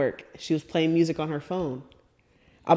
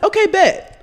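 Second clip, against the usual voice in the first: threatening okay; 13 semitones higher, 7 dB louder, slower than usual. Retold or imitated. Retold reply to friend's denial.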